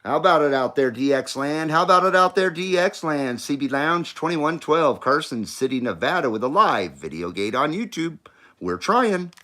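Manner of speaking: CB call through an echo mic; echo microphone. Real, not acted. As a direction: call out over the echoing mic. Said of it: "But I am, I am on echo".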